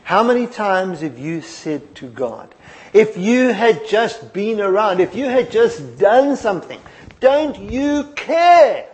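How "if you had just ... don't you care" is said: anguished plea. Retold or imitated. Voicing people blaming God.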